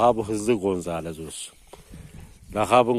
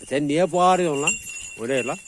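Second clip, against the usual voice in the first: loud, higher, sharp telling-off; scolding shout; 5 semitones higher, 4 dB louder than usual. Real, not acted. Scolding the barking dog.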